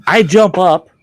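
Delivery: high and loud, jumping up; sudden excited burst; startled leap up. Retold or imitated. Jumping up in shock.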